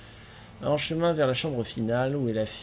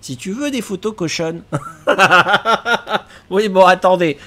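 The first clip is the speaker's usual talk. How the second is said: laughing; 3 semitones higher, 9 dB louder than usual. Real, not acted. Mimicking hotline menu, cracking up.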